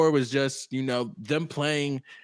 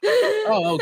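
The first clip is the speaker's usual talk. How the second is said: surprised oh; 5 dB louder than usual. Retold or imitated. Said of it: "I was just like".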